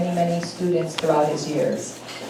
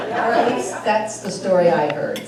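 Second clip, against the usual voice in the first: laughing; 3 semitones higher, 4 dB louder than usual. Real, not acted. Laughing aside.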